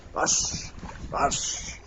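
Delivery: breathy whispered cue word. Real, not acted. Whispered cue to trick bird.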